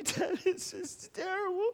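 fake-sob it like a little boy; mock crying child. A young son fake-crying to his dad, high slow whimper. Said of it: "And he's crying".

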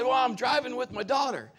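on-air shout. Retold or imitated. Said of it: "I said".

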